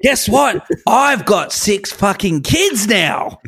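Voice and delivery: shouting dad. Pretend. Dad voice, shouting about his kids.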